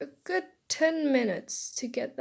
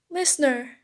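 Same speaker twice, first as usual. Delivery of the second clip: louder, excited call of the name; shouting; 2 semitones higher, 6 dB louder than usual. Acted. Classmate to girl waking up, shouting. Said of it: "Denki shouted".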